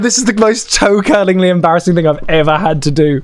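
a touch of cringing mock inner voice; teacher privately cringing; embarrassed aside. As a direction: mutter your mortification. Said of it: "trying to play along, going".

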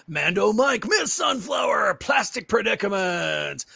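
live-show hype announcer. Shown as a demonstration. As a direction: call it out like a stadium announcer. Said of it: "continue with that announcer voice".

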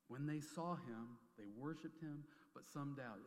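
slow, weighty reading of scripture; preacher reading a sacred verse aloud slowly. Acted. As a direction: read the verse slow and solemn, dwelling on every word. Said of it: "I read the word".

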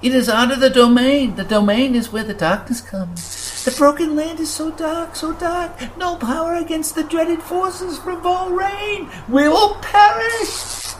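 a tiny sprite sure of doom; frightened creature. Acted. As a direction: panic mounting line by line. Grucken panics about darkness.

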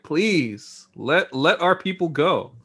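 lightly acted plea; pleading. Townspeople asking for their people back, mildly pleading. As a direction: plead a little, imitating the townspeople. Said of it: "they're basically, like, pleading".

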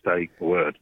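put-on a light take on Dad's Australian accent; imitated Australian accent. Father telling his son to keep silent, imitated Australian accent. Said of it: "in his Australian accent".

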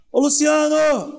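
calling out. Retold or imitated. God calling a person.

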